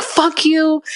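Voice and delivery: retold angry outburst. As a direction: imitate a friend blowing up at someone. Retold cursing while throwing cake.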